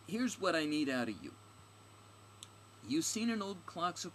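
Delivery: high, loud, pushy character voice; brash, impatient heroine. Acted. Stranger questioning her guide, brash and impatient. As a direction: demand answers from the local.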